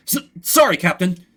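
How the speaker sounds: Larry apologising to the captain, flustered; flustered guard. Acted. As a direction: stumble out the sorry.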